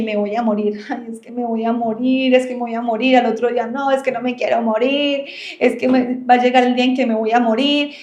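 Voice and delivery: lightly voiced whimper, half laughing; mock whiny fear of dying. Teacher mimicking someone who whines daily about dying, mock whimper. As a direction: play a fretful person, lightly. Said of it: "todos los días a llorar porque".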